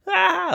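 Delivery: high, drawn-out "ah" in imitation of kids; high-pitched cry. Kids as mom's wooden spoon breaks, mock high cry.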